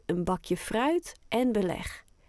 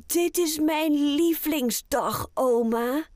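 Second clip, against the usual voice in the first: happy; 7 semitones higher, 3 dB louder than usual. Acted. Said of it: "zegt Oscar blij".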